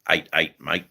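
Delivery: "Eight, eight, mate" in a broad Australian accent, "mate" rhymed; Aussie pronunciation. Shown as a demonstration. Viewer asks for Aussie pronunciation, streamer gives broad Australian accent. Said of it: "Aussie pronunciation".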